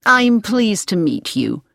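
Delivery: drawn-out, mildly gushing welcome; gracious welcome. A narrator's reading. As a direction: greet him like a party hostess. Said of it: "as if she was welcoming him to a party".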